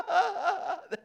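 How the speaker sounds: loud, high burst of laughing disbelief; excited. Retold or imitated. Telling the congregation about the Packers, laughing with excitement. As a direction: shout it out, laughing with joy.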